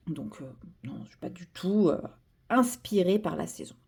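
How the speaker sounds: hushed, half-whispered mock denial; low, whispery pretend innocence. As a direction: deny it under your breath, tongue in cheek. Mock denial of seasonal inspiration.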